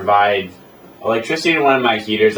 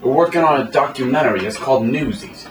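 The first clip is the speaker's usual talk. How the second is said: New York accent; 5 semitones higher than usual. Shown as a demonstration. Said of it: "a bunch of New York kids".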